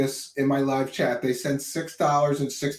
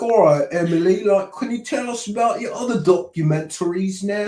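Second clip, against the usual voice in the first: a hint of a pushy troll, louder; mock troll; 6 semitones higher, 4 dB louder than usual. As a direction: needle the guest in a lightly put-on voice. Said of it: "I'm gonna try to troll you".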